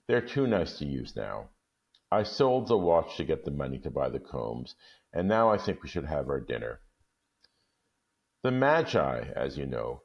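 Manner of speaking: measured storytelling read; calm storybook reading; story narration. A narrator's reading. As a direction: tell it gently, like reading a classic aloud. Reads the story aloud.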